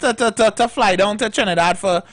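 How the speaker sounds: a lightly voiced relative asking a favour; mock pleading request. Host mimics a relative asking him to carry bananas, pleading.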